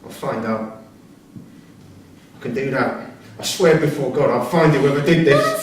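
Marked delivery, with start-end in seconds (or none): 3.4-5.6 loud, vowing revenge; fierce vow. Acted. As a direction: swear it with rising force.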